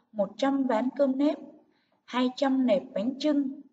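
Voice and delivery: "một trăm ván cơm nếp" and "hai trăm nẹp bánh chưng" firmly marked; deliberate emphasis on "một trăm" and "hai trăm"; stressed gift phrases. Shown as a demonstration. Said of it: "nhấn giọng ở các cụm từ chỉ lễ".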